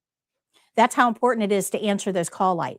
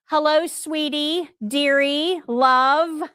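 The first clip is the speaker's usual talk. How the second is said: mock overfamiliar greeting; 5 semitones higher, much slower than usual. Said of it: "We're not going to say".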